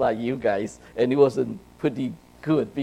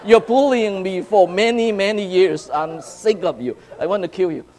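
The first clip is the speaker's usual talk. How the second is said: higher, louder, heated telling-off; angry outburst; 7 semitones higher, 6 dB louder than usual. Retold or imitated. Boy shouting at the bully who choked him. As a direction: let the years of anger out.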